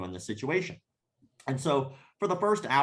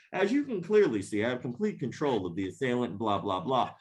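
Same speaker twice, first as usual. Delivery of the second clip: lightly voiced smug supervillain; a hint of grand villain gloating; supervillain monologue. Instructor lecturing the audience, mildly smug like a supervillain. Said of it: "monologuing like a fucking supervillain".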